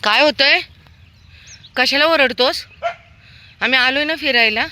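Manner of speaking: high, loud soothing reply to a barking dog; pet talk to a barking dog. Real, not acted. Walker tells a barking dog they only came for a walk, high loud pet talk.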